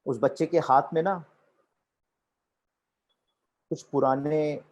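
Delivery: animated narration with long pauses and pitch swings; vivid storytelling. Shown as a demonstration. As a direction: paint the scene piece by piece, pausing between details. Demonstrates storytelling that creates the scene. (ठहर-ठहर कर जीवंत कहानी सुनाना)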